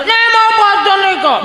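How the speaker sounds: hammed-up spoilt kid refusing food; whining child. Child turning down mother's Maggi, whining.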